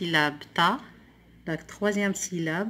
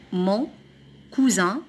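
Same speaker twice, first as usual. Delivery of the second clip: word by word. Shown as a demonstration. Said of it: "le premier mot".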